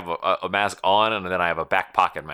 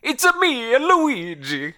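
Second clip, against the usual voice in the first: high cartoon Italian plumber; squeaky video game hero; Luigi voice; 5 dB louder, slower than usual. Luigi impression in hypothetical.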